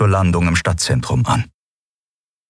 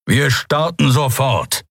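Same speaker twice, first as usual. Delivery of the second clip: curt order; 7 semitones higher, slower than usual. Acted. Kero gives curt order.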